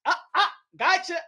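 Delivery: hammed-up tosser picking out catchers; Donald Trump. Throwing paper towels to people, mock Trump calling out. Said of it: "Donald Trump was like this".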